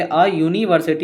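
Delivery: a university read slowly, word by word; slow careful reading. Shown as a demonstration. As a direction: spell it out slowly for the class. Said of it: "यहाँ पे थोड़ा ध्यान से हम लोग देखेंगे".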